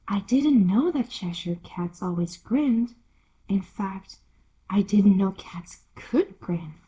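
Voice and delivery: put-on hushed, timid little girl; whispery Alice. Alice whispering timidly to the Duchess. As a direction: ask it under your breath, shyly.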